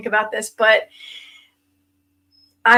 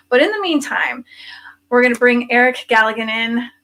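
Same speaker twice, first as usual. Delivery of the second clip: whispering. Acted. Whispered lead-in to guest.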